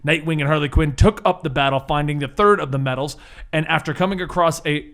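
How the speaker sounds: dramatic recap narration; story narration. Acted. Game master opens the recap with storyteller narration. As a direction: open the tale like a storyteller.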